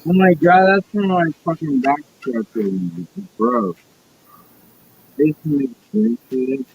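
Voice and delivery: high, strained outburst; losing it over a lighter; freaking out. Real, not acted. Freaking out on stream.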